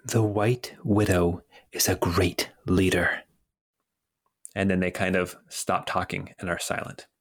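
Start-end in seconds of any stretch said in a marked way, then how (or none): 0.1-3.2 higher voice. Acted. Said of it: "the higher voice says".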